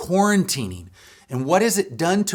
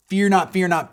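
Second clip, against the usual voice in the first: rising emphasis; 6 semitones higher, 5 dB louder than usual. Acted. Preacher repeating scripture refrain.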